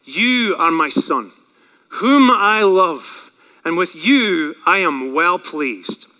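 low, very slow, solemn declaration; Father speaking. Acted. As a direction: pronounce it as God to a son, slow and measured. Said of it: "here's the Father speaking".

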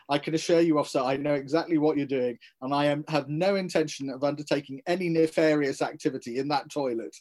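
put-on crisp, commanding old colonial officer; clipped army officer voice. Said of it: "said to him in a very clipped tone".

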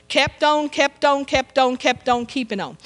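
preacher's fading chant of kept on; rhythmic repetition. Acted. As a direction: repeat kept on like a sermon refrain, dying away. Preacher chanting a repeated phrase.

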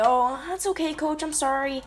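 placating, lightly put-on apology; mock apology. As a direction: imitate a meek official giving in. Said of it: "I didn't go and I didn't".

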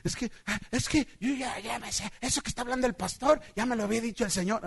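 soft, halting know-it-all testimony; lightly mocked congregant, quiet and stumbling; imitated church member. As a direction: imitate someone hesitating, then hurrying it out. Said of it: "diario así me decía".

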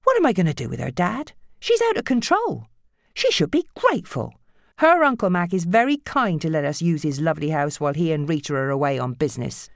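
frazzled mother; exasperated mother. Acted. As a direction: vent to her dad. Nancy voiced.

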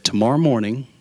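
understated, measured dad voice; calm father. Retold or imitated. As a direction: imitate a father calmly announcing something. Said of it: "he was actually very calm".

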